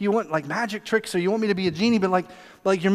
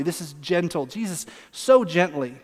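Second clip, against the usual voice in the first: gentle; 2 semitones lower than usual. Shown as a demonstration. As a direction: say it gently, without any harshness. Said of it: "I don't want you to read this harshly".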